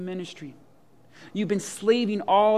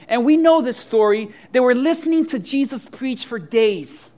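loud, driving sermon voice, a bit higher; fired-up preaching; 3 semitones higher, 6 dB louder than usual. Acted. Pastor telling the congregation a Bible story, forceful preaching. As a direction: preach it hard to win the room.

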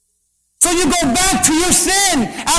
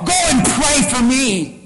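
a light touch of sarcasm, like Pharaoh; mock the request with a sneer; lightly sarcastic devil taunt. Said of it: "in a sarcastic way like Pharaoh".

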